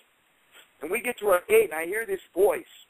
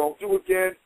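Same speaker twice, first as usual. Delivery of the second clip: high pleading Billy; 14 semitones higher than usual. Retold or imitated. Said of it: "I remember Billy standing in front of me".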